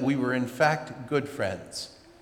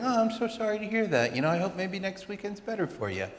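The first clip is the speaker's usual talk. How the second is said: conciliatory; 6 semitones higher, 4 dB quieter than usual. Retold or imitated. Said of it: "something concil-, conciliatory".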